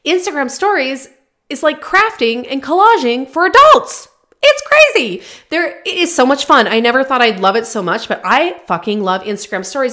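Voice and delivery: getting carried away with excitement; fired up. Real, not acted. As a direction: let the enthusiasm burst out. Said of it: "sorry, I'm getting so fired up right now".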